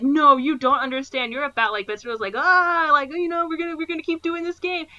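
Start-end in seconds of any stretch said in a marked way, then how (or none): 0.0-1.7 higher, louder panicked pleading; mock panic. Korean guy warning about the bullet, panicking. 2.4-4.9 high-pitched, louder put-on bluffer; mock taunting. Ben Stiller keeping up fake Russian roulette, mock taunting. Retold bluffer carrying on the game.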